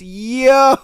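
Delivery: shocked yell. Real, not acted. Shocked by poisoning twist.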